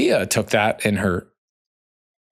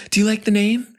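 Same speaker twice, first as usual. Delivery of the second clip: imitating wife asking; 11 semitones higher than usual. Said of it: "Bia goes".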